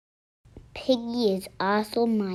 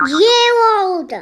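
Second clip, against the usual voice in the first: calling out; 10 semitones higher, 11 dB louder than usual. Acted. Piggie calls out to friend.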